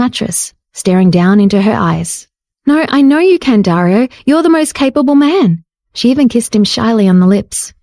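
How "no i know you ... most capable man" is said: put-on higher young woman, sweet and sure; bright reassuring female voice; Jade reassuring. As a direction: soothe his pride.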